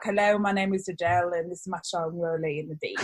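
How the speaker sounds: a hint of thick London Cockney, like chewing gum; the singer's Cockney accent. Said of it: "practice her British accent".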